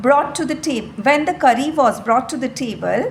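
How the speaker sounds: slow, deliberate classroom reading; measured, careful storybook narration; story read-aloud. A narrator's reading. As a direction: read it out word by word for pupils.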